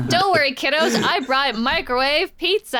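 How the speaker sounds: a hint of a too-sweet grinning father; creepy dad. Dad home to scared kids, lightly creepy cheer. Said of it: "he's got the creepiest smile".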